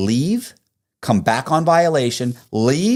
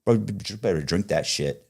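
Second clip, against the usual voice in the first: rude barista; 4 semitones lower than usual. Retold or imitated. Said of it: "get to that point where it's like".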